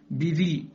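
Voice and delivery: "بذي" with thin, clear i after b; light ba. Shown as a demonstration. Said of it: "كذلك". (ترقيق باء "بذي")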